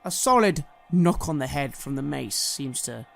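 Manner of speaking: dramatic storyteller, swelling on the action and dropping away; theatrical fantasy narrator; game master scene setting. Acted. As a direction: narrate the fight with suspense.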